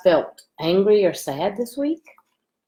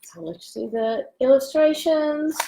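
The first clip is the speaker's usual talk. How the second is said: whisper; 7 semitones higher than usual. Real, not acted.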